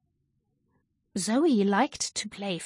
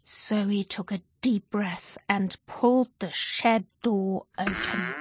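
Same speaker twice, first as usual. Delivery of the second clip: plain reading voice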